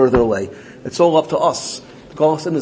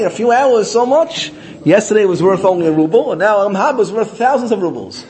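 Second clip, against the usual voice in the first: indignant protest; 4 semitones higher, 3 dB louder than usual. Acted. Indignant complaint to the Rebbe.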